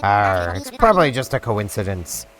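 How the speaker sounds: put-on gruff old sea captain; pirate voice. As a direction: read it like a pirate. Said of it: "for some pirate voice".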